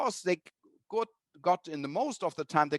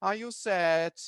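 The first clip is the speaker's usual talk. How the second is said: tender comfort; 3 dB quieter than usual. Retold or imitated. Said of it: "they give a handkerchief and say".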